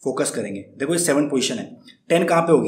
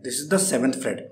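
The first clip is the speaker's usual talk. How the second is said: slow, clear; 2 semitones lower, 4 dB quieter, much slower than usual. Shown as a demonstration. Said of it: "अपने आप guitar में देख सकते हैं".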